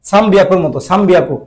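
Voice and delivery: সান বিয়াকু with the n closing into an m, "sambiaku"; n sounding like m. Shown as a demonstration. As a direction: run সান into বিয়াকু as "sam-biaku". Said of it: "এই উচ্চারণটা এমন মতো আসে". (সান বিয়াকু-র ন-কে ম-এর মতো উচ্চারণ)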